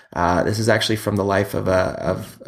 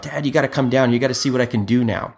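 imitating excited son; 3 semitones higher than usual. Dad voices excited young son.

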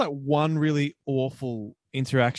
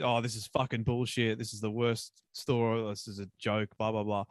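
low, muttered customer complaint; mumbled grumbling; 3 semitones lower, 6 dB quieter than usual. Retold or imitated. Teller imitating a fed-up customer at the fries counter, mumbling. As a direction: grumble it quietly, trailing away. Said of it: "I hear him mumbling".

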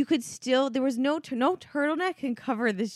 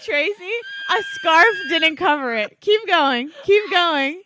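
loud urging; 4 semitones higher, 5 dB louder than usual. Real, not acted. Urging friend through photos.

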